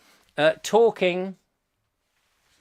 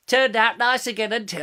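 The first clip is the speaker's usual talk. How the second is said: catchphrase attempt; 4 semitones higher than usual. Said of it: "oh, I'll practice that".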